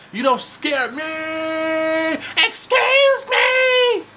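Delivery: very high, slow drawn-out shout; shrill Vicky shout. Retold or imitated. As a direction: stretch out a high shouted taunt. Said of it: "Vicky start going off".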